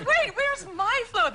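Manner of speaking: slow calling out. Retold or imitated. Comedian on a parade wagon calling slowly for her float. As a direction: call out slowly, lost and baffled.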